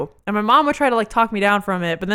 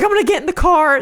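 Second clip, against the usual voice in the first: acted, panicked, frantic, high-pitched mother in frenzy; 7 semitones higher, 4 dB louder than usual. Retelling her mom's reaction when her brother went missing, imitating frantic mom. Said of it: "she's like frantically".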